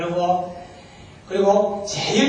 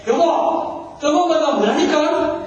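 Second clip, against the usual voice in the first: higher-pitched, insistent mock anger; exasperated wife; 7 semitones higher, slower than usual. Wife asks her silent husband once more, angrily. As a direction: imitate a fed-up wife demanding an answer. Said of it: "너무 화가 나가지고".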